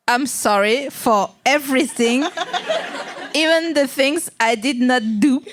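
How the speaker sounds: slow, laughing overdone English apology; mock grovelling apology. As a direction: beg forgiveness in a hammed-up way. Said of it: "T'es là genre".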